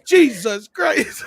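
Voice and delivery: high, drawn-out exasperated outburst; Casey Kasem going off. Retold or imitated. Radio host cursing his crew, mock exasperation. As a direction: imitate a host at the end of his rope. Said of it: "just going the fuck off".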